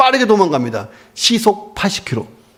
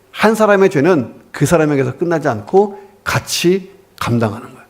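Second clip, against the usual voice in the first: usual speaking voice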